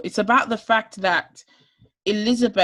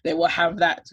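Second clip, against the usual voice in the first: breathless, running low on air; talking while short of breath; 4 semitones lower, 3 dB quieter than usual. Real, not acted. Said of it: "but I'm running out of breath".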